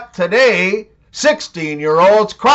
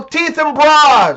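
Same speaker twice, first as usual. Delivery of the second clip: "teeth and bras" slower, higher, each word leaned on; slow emphatic repeat; 6 semitones higher than usual. Shown as a demonstration. Reminder to viewers, "teeth and bras" slow and stressed. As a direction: drill it in slowly, word by word.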